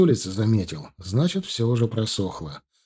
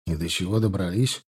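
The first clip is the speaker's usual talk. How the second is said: sarcastic; 3 semitones lower than usual. Acted. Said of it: "язвительно спросил муж".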